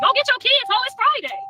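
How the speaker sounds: high, loud yell; yelling at viewer. Real, not acted. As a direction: shout her off the page.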